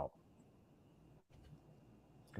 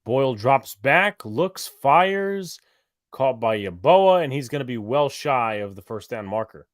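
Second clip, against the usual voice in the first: play-by-play; 4 semitones higher, 3 dB louder than usual. Real, not acted. Live play-by-play.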